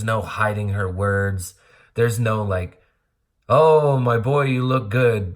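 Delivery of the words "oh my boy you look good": mock gushing. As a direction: gush like a flattering parent, hammed-up. Mimics the gushing parent she isn't.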